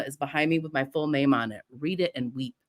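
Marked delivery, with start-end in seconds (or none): none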